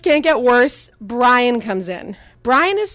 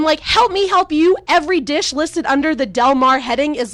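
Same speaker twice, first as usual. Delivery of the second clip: exasperated rant; 3 semitones higher than usual. Retold or imitated. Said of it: "I'm like".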